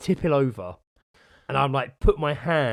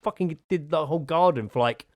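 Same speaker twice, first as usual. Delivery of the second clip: wife scolding; 2 semitones higher than usual. Retold or imitated. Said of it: "She's like".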